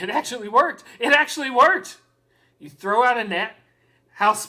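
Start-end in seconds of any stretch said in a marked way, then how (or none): 0.0-0.8 amazed It actually worked, worked rising; first stunned take of It actually worked. Real, not acted. Scheme worked, repeated. 1.0-2.0 higher, louder It actually worked, worked rising in triumph; excited. Real, not acted. Scheme worked, repeated.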